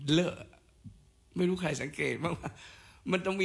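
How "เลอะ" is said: "เลอะ" with a d onset, dl-uh; reconstructed cluster. Shown as a demonstration. Lecturer proposing a lost phoneme, "เลอะ" begun with d. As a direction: demonstrate "เลอะ" as one blended dl sound. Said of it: "มันต้องมีเสียงไอ้เนี่ย".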